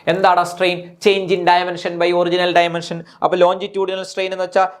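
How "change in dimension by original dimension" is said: slow dictation. Shown as a demonstration. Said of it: "dictating definition".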